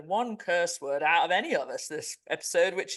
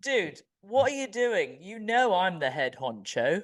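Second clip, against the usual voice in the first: mock God voice; 2 semitones higher than usual. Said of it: "You know what I think he might say is".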